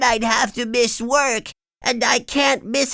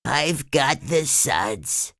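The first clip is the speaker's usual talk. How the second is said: sadly; 7 semitones higher, slower than usual. Acted. SpongeBob admitting to Gary he's sick, slow and sad. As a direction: admit defeat, downcast. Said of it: "said SpongeBob sadly".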